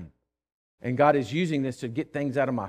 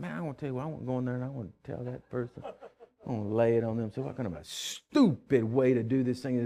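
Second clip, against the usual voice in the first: much softer, grumbling to himself; muttered rant; 4 semitones lower, 6 dB quieter than usual. Retold or imitated. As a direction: fume under your breath at the pump. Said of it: "I was thinking the whole time".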